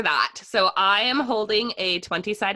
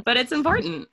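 laughing; 6 semitones higher than usual. Real, not acted. Laughing at her own PSA tone.

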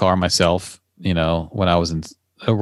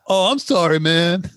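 embarrassed customer; 8 semitones higher, slower than usual. Retold or imitated. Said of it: "they'd be like".

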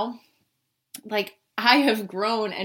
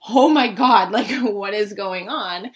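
surprised; 6 dB louder, slower than usual. Retold or imitated. Retelling her drunk surprise at the calls.

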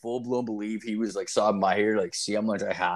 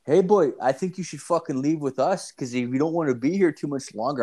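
higher, lightly menacing imitation; mock warning; 6 semitones higher than usual. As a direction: warn the kid off, half-hammed. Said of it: "they're like".

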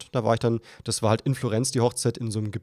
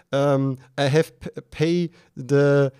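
broken English; 3 semitones higher, 5 dB louder, slower than usual. Retold or imitated. Stammering broken English at toll.

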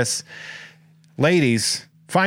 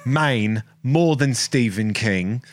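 slow, drawn-out Maine accent; a light Maine accent, slowed down; slower than usual. Shown as a demonstration. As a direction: drawl it out like a Maine local. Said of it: "that's my Maine accent".

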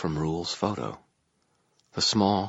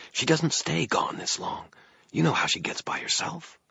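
higher-pitched voice for a growling woman; 10 semitones higher than usual. A narrator's reading. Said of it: "growled a female voice".

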